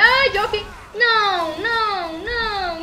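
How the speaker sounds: high frantic shouts; panicked screaming. Real, not acted. Attacked by zombies, begging.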